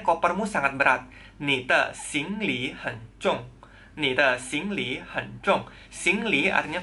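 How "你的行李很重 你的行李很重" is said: 你的行李很重 said slowly, word by word; slow, careful Mandarin drill; slow model sentence. Shown as a demonstration. Teacher repeats 你的行李很重 slowly for learners. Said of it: "Misalnya, 你的行李很重".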